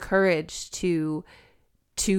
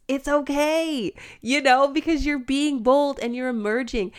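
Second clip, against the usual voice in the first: higher, louder, emphatic reassurance; heartfelt encouragement; 8 semitones higher, 4 dB louder than usual. Acted. Woman urging her younger self to emerge, heartfelt encouragement. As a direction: cheer her on to be bold.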